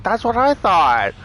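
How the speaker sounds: high, loud and slow, vindicated; emphatic agreement. Retold or imitated. Patient siding with the doctor, vindicated. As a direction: drag it out, totally vindicated.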